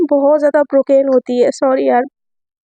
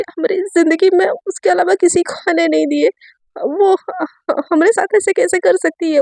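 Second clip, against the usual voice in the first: in pain; 2 semitones higher than usual. Acted. Satya telling Ayesha of her heartbreak, mildly pained. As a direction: stammer out heartbreak. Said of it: "Satya ना एकदम बहुत ज़्यादा पेन में होते".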